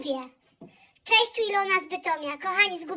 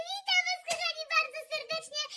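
mock posh accent; 8 semitones higher, 8 dB quieter than usual. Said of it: "tym pięknym akcentem".

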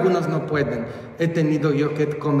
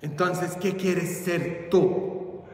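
soft, slow, puzzled asking; bishop's hushed question; 7 dB quieter, slower than usual. Acted. Bishop asks the boy who refused priesthood, hushed questioning. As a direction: drop soft and slow to ask. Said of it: "me preguntó el señor obispo".

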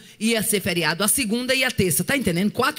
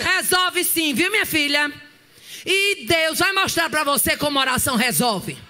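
defiant retort; 2 semitones higher than usual. Retold or imitated. Mother defiant reply to teacher.

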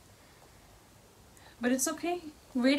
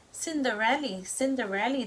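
shouted happily; 4 semitones higher, 3 dB louder than usual. Acted. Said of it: "the mice shouted happily".

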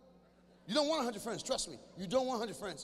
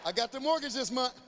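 excited parent; 3 semitones higher than usual. Acted. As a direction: hype it up like a proud parent. Parent cheering, loud.

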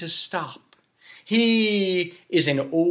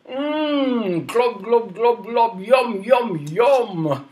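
mock gulping; 3 semitones higher, slower than usual. King eats and drinks.

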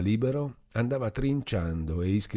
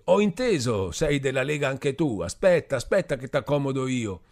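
higher, louder tipsy threat; drunk Renzo louder; 7 semitones higher, 4 dB louder than usual. Acted. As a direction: shout it like a riled-up drunk. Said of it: "Renzo continuava più forte".

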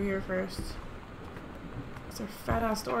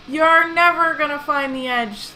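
put-on drunk Irishman; 6 semitones higher, 8 dB louder than usual. Pirate captain taunts the heroine, drunk Irish accent. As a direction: growl it like a drunk old Irish sea dog. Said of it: "I made it sound like an old drunk Irishman".

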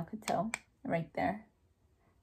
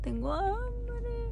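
much higher, slow mock whine; whiny complaint; 13 semitones higher, much slower than usual. Real, not acted. Complaining of hunger.

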